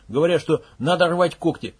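ordinary delivery

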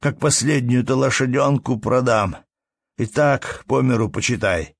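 a touch of despair in the question; mild despairing plea; desperately. Acted. Peasant asking the manager in despair, desperate. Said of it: "говорил отчаянно мужик".

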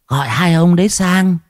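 high, piercing challenge; shrill. A narrator's reading. Possessed wife pointing at her husband, shrill. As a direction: raise the voice into a shrill taunt. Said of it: "chỉ tay mà nói the thé".

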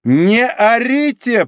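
high, loud, slow command; sharp shout. A narrator's reading. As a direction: bark it down at him. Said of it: "прикрикнула она на Греннера". (резкий громкий окрик)

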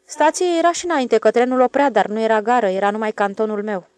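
proud. Acted. Switchman proudly recalls.

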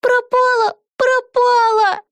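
put-on very high wailing child; a small girl crying over her lost doll; squealing little girl. A narrator's reading. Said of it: "завизжала её маленькая дочка". (визг маленькой девочки)

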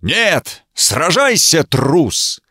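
звучно кричит, выше; требовать боя в полный голос; звучный крик. A narrator's reading. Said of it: "Он прокричал звучно". (рыцарь звучно кричит противнику, чтобы тот сражался)

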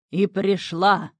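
loud, slow triumphant cry; triumphant shout. A narrator's reading. Water devil catching the imp, triumphant slow shout. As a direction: pounce on the word in victory. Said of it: "победно закричал Водяной".

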